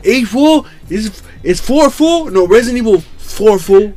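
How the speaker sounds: high sassy teasing voice. Retold or imitated. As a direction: play it sassy. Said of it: "I was doing the sassy voice".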